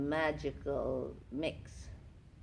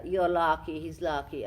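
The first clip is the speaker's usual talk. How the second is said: a light, playful Transylvanian lilt; lightly put-on Transylvanian accent. Actress showing off her Transylvanian accent. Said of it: "I come from Transylvania".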